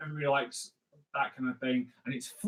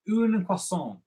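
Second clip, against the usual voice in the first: higher-pitched French phrase; 4 semitones higher, slower than usual. Shown as a demonstration. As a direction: announce it in French. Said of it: "fluent French like I do".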